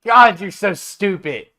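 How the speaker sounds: high, loud disbelieving laugh through words; laughing in loud disbelief; laughing hard. Real, not acted. GM laughing at player.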